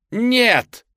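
high, loud howl of despair. A narrator's reading. Sisters seeing Belle kiss the beast, howling. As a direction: wail the word out. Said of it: "взвыли сёстры".

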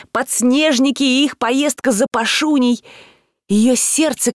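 usual speaking voice

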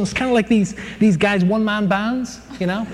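normal talking voice

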